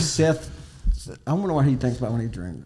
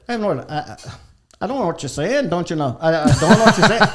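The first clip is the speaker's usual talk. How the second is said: higher mock Minnesota accent; imitated Minnesota lady; 4 semitones higher, 4 dB louder, faster than usual. Retelling a truck stop mix-up, mock Minnesota accent. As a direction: imitate a Minnesota local, laughing by the end. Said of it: "the lady literally said".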